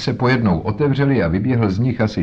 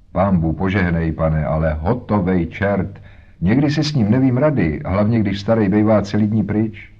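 lightly voiced boatman's wife. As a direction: talk like a harried mother. Voices Mrs Smith.

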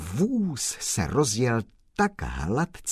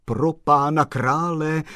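higher, louder startled exclamation; exclaiming; 6 semitones higher, 6 dB louder than usual. Acted. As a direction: cry it out in surprise. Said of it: "zvolal pan Kolbaba".

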